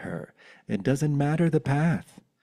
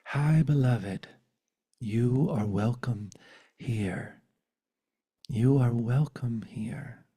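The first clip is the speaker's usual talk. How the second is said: tender whisper. Acted. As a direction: welcome softening toward a whisper. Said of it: "whisper to every heart in the universe".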